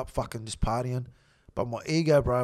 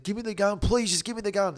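higher-pitched retold plea; mildly plead, imitating a man urging calm; 4 semitones higher than usual. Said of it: "He's like".

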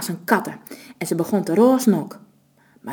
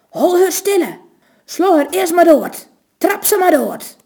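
much higher, louder furious yelling; raging shout; 9 semitones higher, 5 dB louder than usual. A narrator's reading. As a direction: scream for her death in blind rage. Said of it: "roosde Matthijs".

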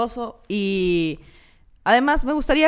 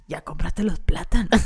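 mundane voice note; 5 semitones lower than usual. Retold or imitated. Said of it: "Yo así que".

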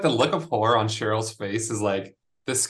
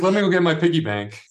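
mock eager kid; 7 semitones higher, 5 dB louder, faster than usual. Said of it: "He's like".

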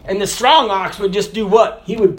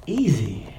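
soft echo; 4 semitones lower, 4 dB quieter than usual. Shown as a demonstration. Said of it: "easy repeated".

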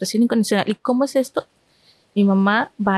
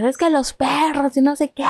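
higher, stretched-out complaint without added volume; mock yelling; 4 semitones higher than usual. Mother answering her son about the dogs, mock yell. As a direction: imitate a mother's hysterical fussing, half-hearted. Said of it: "está gritando mi mamá".

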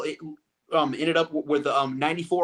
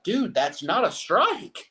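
higher, drawn-out protest to the umpire; imitating an exasperated batter, slow and raised; quoted protest; 5 semitones higher, much slower than usual. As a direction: drag out a disbelieving objection, pitched up. Quoting batter protesting the call.

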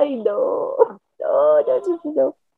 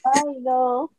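ordinary delivery

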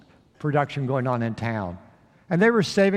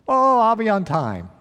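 eager promise; 6 semitones higher, 5 dB louder than usual. Acted. Jenny eagerly promising punctuality.

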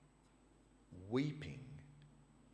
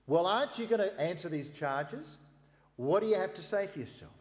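loud, high, demanding the prisoner answer; indignant challenge; 10 semitones higher, 10 dB louder than usual. Acted. High priest challenging silent Jesus, loud and indignant. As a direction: press him hard, voice up.

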